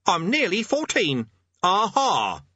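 put-on high, loud boy's protest; indignant boy. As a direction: insist on it like an offended boy. Offended boy insisting on his age.

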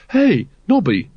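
put-on urgent young recruit. A narrator's reading. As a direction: call to your partner with concern. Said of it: "said Carrot urgently".

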